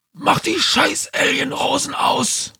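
high, furious alien shout; Kang schreit. A narrator's reading. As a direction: scream it in a strange shrill alien voice. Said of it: "schrie Kang". (wütendes Alien-Geschrei)

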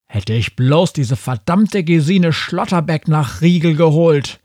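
frustrated yelling; angry shout. A narrator's reading. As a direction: shout it in exasperation, building to the last word. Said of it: "schrie der Major".

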